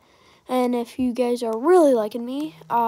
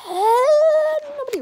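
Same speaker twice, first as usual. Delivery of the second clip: surprised eh; 7 dB louder than usual. Real, not acted. Sudden high cry at game.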